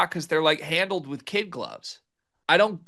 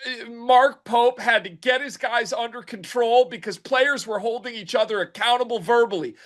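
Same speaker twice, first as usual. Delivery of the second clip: mock sideline report; 4 semitones higher than usual. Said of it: "Let's go down for the sideline report".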